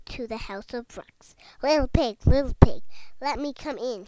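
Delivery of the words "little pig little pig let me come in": loud wolf call. A narrator's reading. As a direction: shout it at the door like a wolf. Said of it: "he cried".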